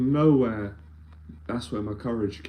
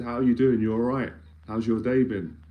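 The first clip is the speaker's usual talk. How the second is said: friendly greeting. Retold or imitated. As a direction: imitate a breezy, disarming hello. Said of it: "with that sort of tone".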